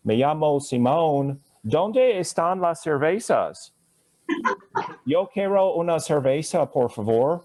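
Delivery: hammed-up tourist butchering Spanish; bad gringo Spanish. Teacher mocking a tourist abroad, clumsy American-accent Spanish. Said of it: "That sounds like an idiot".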